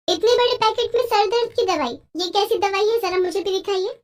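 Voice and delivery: high, teasing daughter-in-law voice; suspicious bahu. Acted. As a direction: pointedly question the odd packet. Daughter-in-law questions the packet. (shaky excuse पकड़ती बहू की ऊँची, शक भरी आवाज़)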